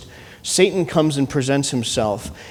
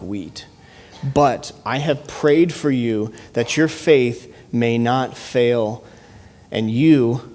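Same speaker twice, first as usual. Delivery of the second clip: earnest scripture reading, slowing on the last words. Acted. Pastor reading Jesus' words to Simon, earnest and measured. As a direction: read Jesus' warning with weight. Rereads the verse.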